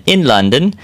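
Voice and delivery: lightly attempted English accent that sounds Irish. Host reading a London study in the news, attempted English accent. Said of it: "that was my English accent".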